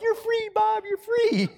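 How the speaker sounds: squeaky falsetto goodbye to a bug; mock farewell. Family releasing the car bugs out the window, squeaky falsetto farewell. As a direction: send the bug off in a tiny sky-high voice. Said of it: "we're like".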